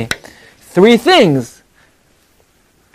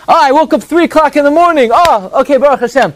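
sleepy guy remembering; 9 semitones higher than usual. Pretend. Guy waking up at three.

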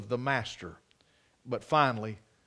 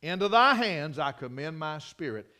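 Jesus; 3 semitones higher, 9 dB louder than usual. Retold or imitated. Preacher enacting the last words from the cross, loud cry. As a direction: call out to heaven in full voice. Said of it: "With a loud voice, the Lord Jesus cried".

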